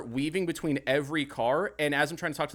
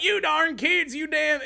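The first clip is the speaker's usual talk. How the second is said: grumpy adult; 13 semitones higher, 4 dB louder than usual. Retold or imitated. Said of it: "it's usually like".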